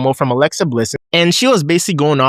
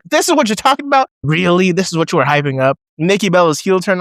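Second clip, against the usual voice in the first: high, disbelieving mock question; incredulous scoff; 4 semitones higher than usual. Fan scoffing at the hyped heel turn, incredulous. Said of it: "sucked my teeth so hard at my T V".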